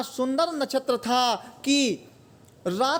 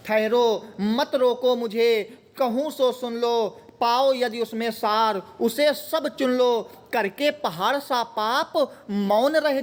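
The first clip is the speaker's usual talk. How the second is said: measured verse reading, phrase by phrase; poem recitation. Acted. Teacher reads the queen's verse to students, poem recitation. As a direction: recite the verse with deliberate pauses.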